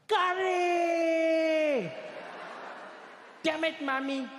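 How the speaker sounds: high shrieking wail of despair; screaming curry. Retold or imitated. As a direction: scream it like a betrayed kid. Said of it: "he'd scream at the top of his lungs".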